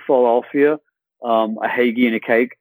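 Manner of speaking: light Philadelphia accent; a hint of Philly in the vowels. Shown as a demonstration. Actor sampling a neighbouring accent, Philly accent. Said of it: "sort of like Philly a little bit".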